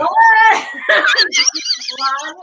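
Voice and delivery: high, loud laughing shriek; real shocked laughter through the words; laughing disbelief. Real, not acted. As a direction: burst out laughing as you ask. Laughing shock at intimate story.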